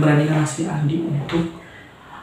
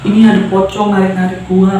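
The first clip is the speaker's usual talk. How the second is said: raised pitch, louder, pleading complaint; frightened mock cry; 4 semitones higher, 5 dB louder than usual. Mother telling family a pocong is pulling her, mock alarmed cry. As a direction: imitate a mother crying out about a ghost. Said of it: "si ibu itu masih teriak-teriak".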